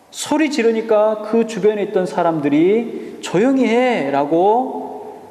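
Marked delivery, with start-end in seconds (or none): 3.2-5.2 slow, drawn-out scolding hush; mock bullying hush. Crowd bullying the beggar, drawn-out hush. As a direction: lean on 조용히 slowly, bullying. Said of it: "바디메오를 윽박질렀을 것입니다".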